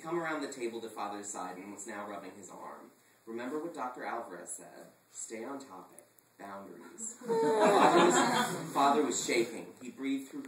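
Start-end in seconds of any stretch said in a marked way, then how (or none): 3.2-7.2 soothing. Acted.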